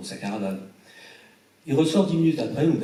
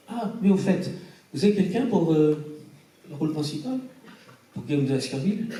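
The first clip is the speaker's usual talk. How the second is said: lightly raised, curious friend's voice; a hint of an eager Italian friend asking; imitating Umberto's question; 5 semitones higher than usual. Umberto outside the restaurant asking who plays the lead, lightly raised curious voice.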